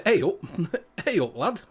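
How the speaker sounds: put-on "Hey up, lad" in a light Yorkshire accent; Yorkshire greeting. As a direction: greet the viewers like a Barnsley lad. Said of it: "That's what I say".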